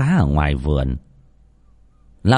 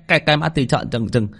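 stammer; 6 semitones higher, faster than usual. Acted. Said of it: "Thằng Tý lắp bắp".

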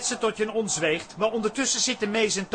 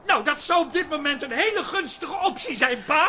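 shouted taunt; 6 semitones higher than usual. Acted. Son provokes father.

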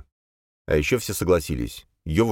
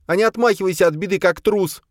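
high, fast, louder scolding; angry; 4 dB louder than usual. Acted. Boya calling Khranka a coward, high and fast. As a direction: fire it off in scorn. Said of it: "злилась Боя".

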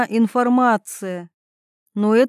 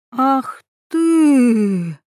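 breathless outraged gasp; a breathless, outraged cry; choking with outrage; 3 semitones higher, 4 dB louder than usual. A narrator's reading. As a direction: sputter in fury. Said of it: "аж задохнулась от возмущения".

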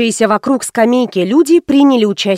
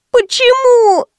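put-on much higher whine of a little girl; child's whining why; 13 semitones higher, slower than usual. Girl pesters mother, high whine. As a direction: squeal the question, aggrieved.

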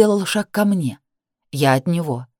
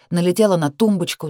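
ordinary delivery

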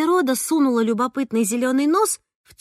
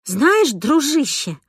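furious hiss; 3 semitones higher, 3 dB louder, much slower than usual. Acted. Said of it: "прошипела я так яростно".

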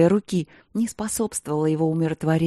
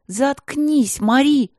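high, loud yell; angry yell to shut up; 9 semitones higher, 4 dB louder, much slower than usual. A narrator's reading. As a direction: shout her down. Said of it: "заорала Пол".

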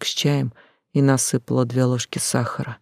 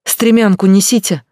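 higher, louder shout; higher, louder shouted order to the neighbours; 6 semitones higher, 7 dB louder than usual. A narrator's reading. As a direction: yell for the ladder. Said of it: "закричала".

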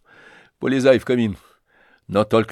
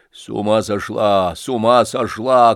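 shouting; 2 semitones lower, 4 dB louder than usual. Acted. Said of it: "кричали кругом".

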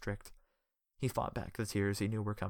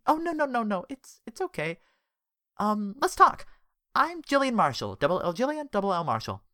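flirty; 12 semitones higher, 6 dB louder than usual. Acted. Smitten woman flirting.

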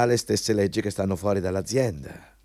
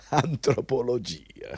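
mocking laugh; 3 semitones higher, slower than usual. Interviewer mocks the degree.

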